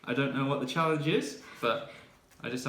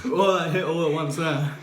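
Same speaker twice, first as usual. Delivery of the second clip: mouth burning from spicy food; 3 semitones higher, 10 dB louder than usual. Real, not acted. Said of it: "That's hot".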